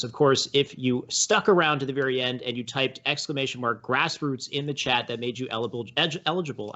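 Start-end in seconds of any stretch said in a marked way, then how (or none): 5.5-6.7 "eligible" fumbled, with a false start before it lands; tongue-tied stumble. Real, not acted. Host closing the show, tongue-tied on "eligible". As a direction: trip over "eligible", breaking off and retrying. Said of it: "I can't even say that word".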